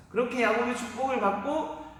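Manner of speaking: ordinary talk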